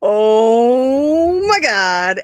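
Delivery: breathless, drawn-out awestruck "oh my God"; overwhelmed fangirl, barely getting it out; slow, stunned fan gasp; starstruck gasp. Retold or imitated. Starstruck on seeing wrestler.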